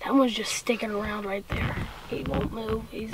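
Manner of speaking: low whisper about the bird; hushed whisper. Real, not acted. Son whispering about the turkey still nearby. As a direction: keep it quiet, watching.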